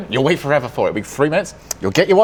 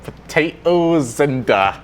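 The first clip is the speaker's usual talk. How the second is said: slow, halting put-on voice; Gibbs impression; much slower than usual. Shown as a demonstration. Player doing an impression on request for the hosts, slowly. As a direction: draw the words out as a bad impression. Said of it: "hear your best actual Gibbs impression".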